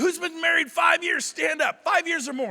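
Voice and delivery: shouted crowd instruction; calling to a room. Retold or imitated. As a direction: imitate a host ordering a crowd to its feet. Imitating someone calling to a room.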